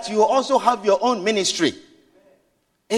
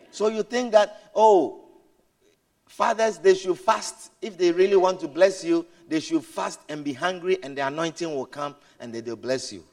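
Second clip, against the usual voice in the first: sinking quieter and lower mock of the idea; mocking aside; 7 semitones lower, 6 dB quieter than usual. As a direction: let it fade into scorn. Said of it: "mocking wrong idea".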